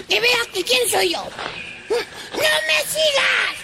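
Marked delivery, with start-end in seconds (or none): 1.9-3.6 slow, drawn-out yell; angry shout. Acted. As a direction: shout it at the shadow. Fed up, yells at shadow.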